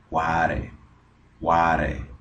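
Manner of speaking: "cuare" with a tapped R for the T. Shown as a demonstration. Teacher showing American linking, "cuare" with T turned into R. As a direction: link "what a" into "cuare", tapping the R. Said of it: "esa T la convierten en una R".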